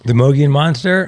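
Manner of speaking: startled, delighted recognition; surprised gasp. Real, not acted. Gasps on hearing the race name.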